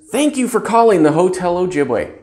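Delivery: bright, lifted hotel greeting; mean every word; enthusiastic greeting. Shown as a demonstration. Clerk answering the phone the right way, enthusiastic. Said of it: "Mean it".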